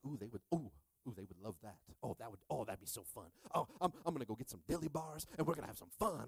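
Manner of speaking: giddy mock aside building to a rush; excited dad. Dad dreaming up a treat for his sons, excited. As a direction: act out a dad getting excited, speeding up at the end. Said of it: "I get excited".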